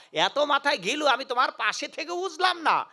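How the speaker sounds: high, marvelling demoness; mild mock amazement; amazed wife. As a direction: gush over his cleverness. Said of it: "অবাক হয়ে বললেন".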